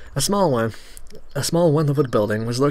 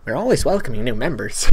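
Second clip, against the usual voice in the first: lightly nerdy, proud welcome; a touch of a stiff nerd; 3 dB louder than usual. Acted. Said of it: "I'm gonna have fun with his voice".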